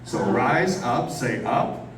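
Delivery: slow call to repeat; slow prompt. Shown as a demonstration. Host prompting audience to repeat words, slow. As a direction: coax the crowd to echo. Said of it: "The next word is up".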